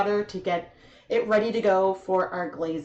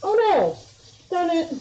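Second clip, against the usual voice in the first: dismayed; 8 semitones higher, 4 dB louder than usual. Real, not acted. Mishap while filming.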